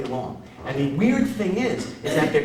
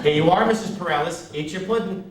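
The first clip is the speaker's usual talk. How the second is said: lightly voiced nurse; 3 semitones higher than usual. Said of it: "that would bring the nurses".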